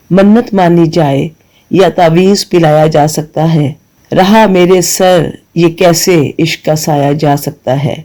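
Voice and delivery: slow, measured verse reading; poem recitation. Acted. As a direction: let each line of the couplet settle.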